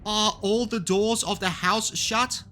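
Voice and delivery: high, slow, whimpering question; anxious high-pitched voice; fearful. A narrator's reading. Marvel fearful of hidden pursuer.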